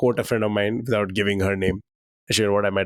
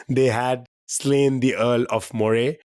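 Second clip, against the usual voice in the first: correct line, slow; slower than usual. Shown as a demonstration. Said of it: "What do you think the original line was".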